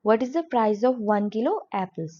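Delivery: slow, deliberate English model line; slow classroom demo; slow model sentence. Shown as a demonstration. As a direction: read it slowly for learners. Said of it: "आपको इस तरीके से बोलना है".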